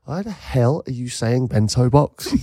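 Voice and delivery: drawn-out mock indignation; indignant retort. Ab flags the speaker up on bento box, mock indignant. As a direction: quote an incredulous telling-off, slowly. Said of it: "flagged me up on it".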